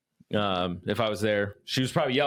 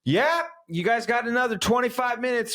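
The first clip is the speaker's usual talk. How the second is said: mock passerby in a high voice; passing hiker; 10 semitones higher than usual. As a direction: imitate a hiker calling out, pitched way up. Voices another hiker coming down.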